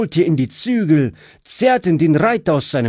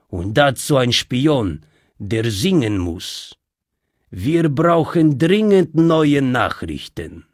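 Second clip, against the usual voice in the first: commanding bandit. Acted. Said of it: "und gebot".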